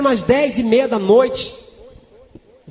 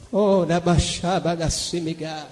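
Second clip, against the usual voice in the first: low, slow murmured tongues, fading away; slow ecstatic tongues dropping to a hush; speaking in tongues; 7 semitones lower, 7 dB quieter, slower than usual. Real, not acted. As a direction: pray in tongues, sinking lower and softer.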